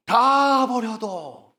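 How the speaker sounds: loud, high, very drawn-out cry; emphatic vow. Acted. Peter insists he will never leave, loud and stretched. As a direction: hold the first word long and push it out hard.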